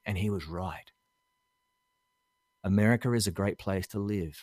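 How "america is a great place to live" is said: "America is" run together as "Americar-is"; extra R slipped in. Shown as a demonstration. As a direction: link America to is with a light R. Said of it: "Did you hear that?".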